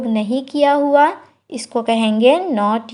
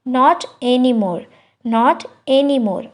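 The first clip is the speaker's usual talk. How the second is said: slow, careful repeat; slow teacher repetition; slow demo; much slower than usual. Shown as a demonstration. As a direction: say each word slowly for learners. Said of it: "repeats phrase slowly for learners".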